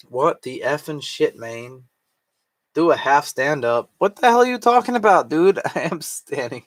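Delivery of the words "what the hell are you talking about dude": high, fast disbelief; incredulous. Real, not acted. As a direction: fire back in disbelief. Confused by friend's instruction.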